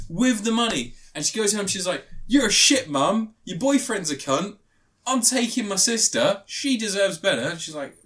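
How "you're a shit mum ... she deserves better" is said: mock angry daughter. Retelling the film, the girl rages at her mum, mock angry. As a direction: snap it at the mum like a fed-up teen.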